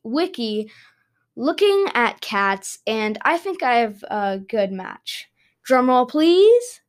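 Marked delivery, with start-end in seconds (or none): 5.6-6.8 announcing. Real, not acted. Calling for drum roll.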